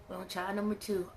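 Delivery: breathy aside, no voice; whispered aside. Retold or imitated. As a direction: whisper it to yourself. Repeating to herself quietly.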